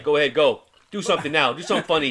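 egging him on, laughing; a mock demand for a funny promo; mock pushy friends. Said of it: "they were like".

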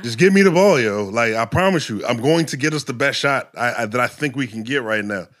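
a hint of court shouting at teammates; demanding call. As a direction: plead with teammates to pass. Pleading teammates for the ball.

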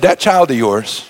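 put-on slow, low, pointed "That child of yours"; disowning jab. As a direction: drag out "child" with cold disdain. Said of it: "You've said".

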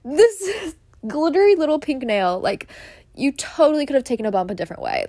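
giggling through the words; laughing while scolding a friend; laughing disbelief. Retold or imitated. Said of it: "I was like".

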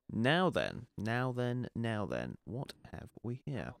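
mild pompous policeman voice; lightly voiced plodding bobby; dim pompous cartoon cop. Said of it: "hang on, Jimmy".

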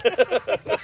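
high, loud squeal of a word; excited. Real, not acted. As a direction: blurt it out gleefully. Joking high loud exclamation.

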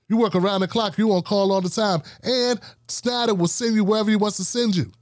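retold gripe, piling up one grievance after another; complaining coworker. Fed-up employee warning the new guy about the boss, complaining.

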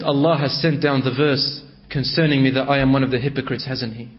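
low, hushed, broken question; tearful. Acted. Tha'laba asking the Prophet about the verse, hushed and tearful. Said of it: "he was crying".

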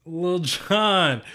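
light up at the name and shout it back; excited echo. Real, not acted. Friend echoing a rapper's name, excited.

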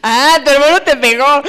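rising, lightly voiced parent; parent echoing. Parent repeating the child's complaint back to her.

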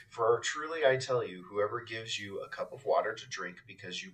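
measured gospel reading aloud; scripture reading. Acted. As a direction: read it out evenly to a congregation.

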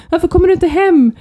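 high, loud puzzled question; puzzled daughter. Retold or imitated. Daughter asking on the phone why she isn't home, puzzled and high. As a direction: ask it like a baffled kid on the phone. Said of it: "Hanna ringde och bara".

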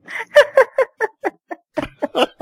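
breathy giggle through the word; laughing. Real, not acted. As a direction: crack up while saying it. Cracking up at the word.

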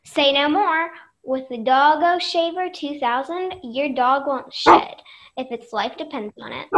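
punchy salesman pitch; ad read. Acted. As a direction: sell it like a TV ad. Mock commercial pitch.

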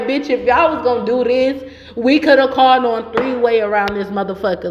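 retold exasperated complaint; irritated. Retelling a complaint to friends about the night out, irritated. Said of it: "I was so irritated in that moment".

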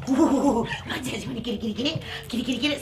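breathy, playful coaxing; tantalising the dog, hushed after the ooh; teasing. Real, not acted. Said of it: "see how I'm teasing her".

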